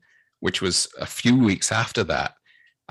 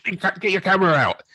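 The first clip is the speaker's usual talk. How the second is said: higher, fast Austrian Arnold impression; Arnold Schwarzenegger; 10 semitones higher, faster than usual. Retelling Arnold's line to fans, fast Austrian accent. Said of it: "sounds exactly like something Arnold Schwarzenegger would say".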